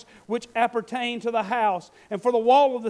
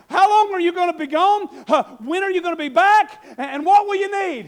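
higher, louder pressing queen; queen questioning; 5 semitones higher, 5 dB louder than usual. Acted. The queen questions Nehemiah, higher and louder. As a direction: press him with eager questions. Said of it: "the queen asked him".

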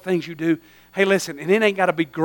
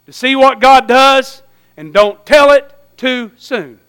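slow emphasis; 4 semitones higher, 7 dB louder, slower than usual. Shown as a demonstration. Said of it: "I'm gonna say the hardest words".

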